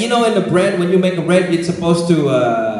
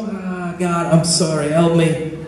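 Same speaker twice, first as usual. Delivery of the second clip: understated, slightly lowered penitent prayer; mournful plea; 2 semitones lower than usual. Retold or imitated. Pastor retelling his prayer to God over his failings, mildly mournful. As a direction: plead with a touch of regret. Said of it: "It makes me mourn".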